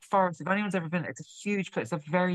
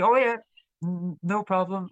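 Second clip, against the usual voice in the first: put-on casual Northern Irish accent; lightly imitated Northern Irish accent; 3 dB louder than usual. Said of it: "in his Northern Irish accent".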